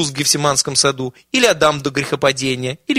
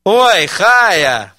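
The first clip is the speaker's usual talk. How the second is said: delighted cry; 6 semitones higher, 8 dB louder than usual. Acted. Old students greet the granny.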